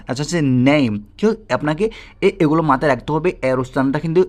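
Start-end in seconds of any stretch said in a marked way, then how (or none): 0.7-0.9 "নেম" with a drawn-out এই vowel; pronunciation demo. Shown as a demonstration. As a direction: model "নেম" clearly, stretching the middle. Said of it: "কতভাবে উচ্চারিত হচ্ছে". ("নেম"-এর এ টেনে স্পষ্ট উচ্চারণ)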